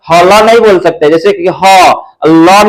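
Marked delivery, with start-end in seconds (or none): 1.5-2.7 slow demo. Shown as a demonstration. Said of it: "थोड़ा सा slowly sound कर रहे हैं".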